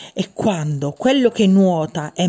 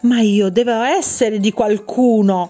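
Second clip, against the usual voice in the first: mild cry out; 2 semitones higher, 3 dB louder than usual. Acted. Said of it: "gridò Pezzettino".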